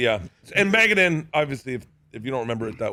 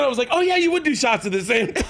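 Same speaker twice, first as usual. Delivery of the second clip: much higher, voice breaking into laughter; retold quote through real laughter; laughing retelling; 10 semitones higher than usual. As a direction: barely get the quote out for laughing. Teller cracking up at own story.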